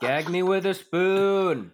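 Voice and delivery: put-on slow, drawn-out Valley Girl; hammed-up Valley Girl disgust. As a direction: stretch it like a mock Valley Girl. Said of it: "she'd go Valley Girl".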